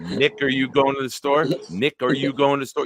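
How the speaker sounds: "Nick, are you" run together fast; said quickly, slurred. Shown as a demonstration. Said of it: "if you say that sentence very quickly".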